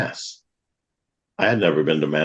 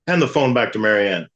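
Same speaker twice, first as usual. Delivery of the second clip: deaf priest's order; 4 semitones higher than usual. Retold or imitated. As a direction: bark "Hand the phone back to Marianne" like a half-deaf priest. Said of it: "he talks like everybody's starting to go deaf".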